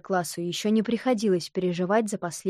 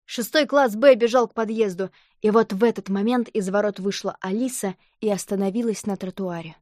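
ordinary delivery

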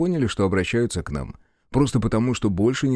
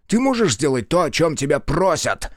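breaking into a shout; 6 semitones higher than usual. A narrator's reading. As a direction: lose patience and yell it. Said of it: "Снова сорвался на крик генерал".

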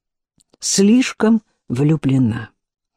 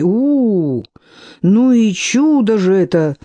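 booming with delight; 4 semitones higher, slower than usual. Acted. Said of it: "загудела Шейла".

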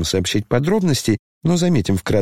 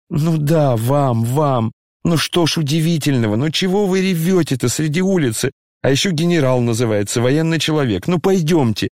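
tearful scolding; 4 semitones higher than usual. Acted. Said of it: "Коля сам плакал".

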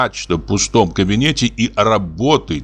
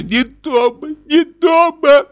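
wailing, much higher and louder; hysterical crying; 4 dB louder, slower than usual. A narrator's reading. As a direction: sob it out in hysteria. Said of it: "С нею сделалась истерика". (истерический плач, с рыданием)

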